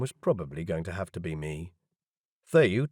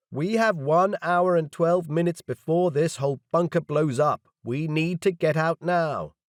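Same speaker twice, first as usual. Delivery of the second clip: urgent address; 7 semitones higher, 4 dB louder than usual. A narrator's reading. Urging crowd to evacuate.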